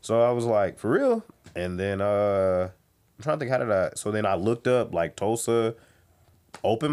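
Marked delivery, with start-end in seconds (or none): 0.8-1.2 surprised. Retold or imitated. Surprise at praise.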